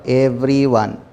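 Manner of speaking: "everyone" set apart and drawn out; stress on everyone. Shown as a demonstration. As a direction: give "everyone" deliberate weight, syllable by syllable. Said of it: "the word to highlight is everyone".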